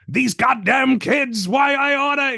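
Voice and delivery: hammed-up furious old geezer shaking his fist; mock old man ranting at a comedian, high, slow and loud; angry old man. Old man shakes his fists.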